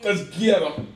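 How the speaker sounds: high, loud gung-ho cry; battle cry. Acted. Player voicing his character's first reaction, battle cry.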